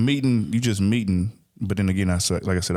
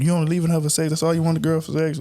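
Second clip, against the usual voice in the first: higher, mocking accuser; accusing voice; 6 semitones higher, faster than usual. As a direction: mimic someone judging you. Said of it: "we was kinda demonized for it".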